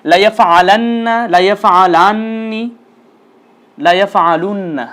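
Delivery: slow, deliberate chant of the forms; slow recitation drill. Shown as a demonstration. Teacher leading students in slow repeat-after-me drill. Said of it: "আমার সাথে সাথে অবশ্যই উচ্চারণ করতে হবে".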